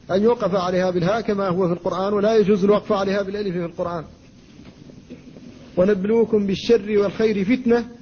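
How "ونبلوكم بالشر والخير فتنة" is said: فتنة stopped on a long a, as fitna; wrong pause. Shown as a demonstration. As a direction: end فتنة with alif, the rejected way. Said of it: "لا يجوز أن تقولوا فتنة". (الوقف على فتنة بالألف خطأ)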